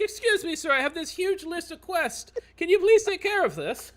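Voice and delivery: high-pitched NPC pushing a list of quests; squeaky quest-giver. Acted. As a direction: whine up at the hero with a big list. DM voices quest-spammer NPC.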